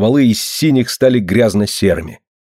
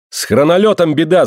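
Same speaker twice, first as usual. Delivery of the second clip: higher alarmed shout; 6 semitones higher than usual. Acted. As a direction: yell out the bad news. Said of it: "закричал Аркадий".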